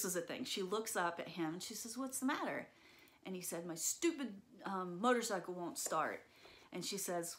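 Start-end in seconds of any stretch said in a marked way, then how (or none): 2.0-2.7 lightly voiced mom, pitched up; mother's question. Mom to her frustrated son, lightly voiced higher question. 3.7-6.2 put-on frustrated, angry boy. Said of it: "so frustrated and so angry".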